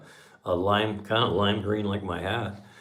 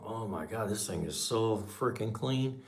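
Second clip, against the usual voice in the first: hushed, drawn-out private amazement; inner thought; 9 dB quieter than usual. Retold or imitated. Buyer hiding his amazement at the car, hushed inner thought. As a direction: say it softly and slowly, as if thinking it. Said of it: "in my inside, I'm going".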